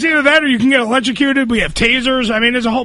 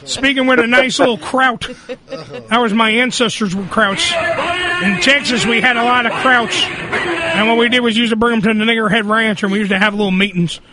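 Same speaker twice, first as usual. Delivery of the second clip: lightly voiced Texan politician; a hint of a folksy politician impression; Rick Perry. Host playing a Texas politician reminiscing, lightly put-on voice. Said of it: "there's Rick Perry here".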